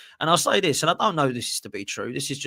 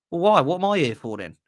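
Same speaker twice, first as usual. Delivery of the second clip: indignant; 5 semitones higher, 3 dB louder than usual. Pretend. Acted dialogue, indignant hire.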